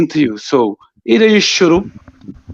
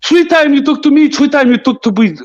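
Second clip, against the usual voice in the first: jab it back, rising in anger; heated outburst; 7 semitones higher than usual. Real, not acted. Heated argument with rival player.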